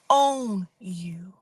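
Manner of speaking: whispered warning; ominous whisper. Real, not acted. Warning the listener, ominous whisper. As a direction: whisper it like a curse.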